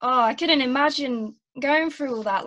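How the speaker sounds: moved and a little tearful, slowing on "so"; a bit teary. Real, not acted. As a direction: hold back a few real tears. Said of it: "I'm getting a bit teary".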